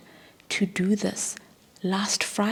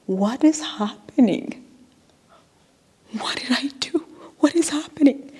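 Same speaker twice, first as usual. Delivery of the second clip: rising, bewildered cry of disbelief, getting louder; 7 semitones higher, 5 dB louder than usual. Retold or imitated. Confused by the colleague's scolding, disbelieving outburst. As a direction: blurt it out in confused shock. Shocked reaction to being scolded.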